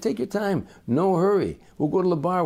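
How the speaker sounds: breezy and unbothered, brushing it off; a light crooner impression; calm crooner. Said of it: "Frank said".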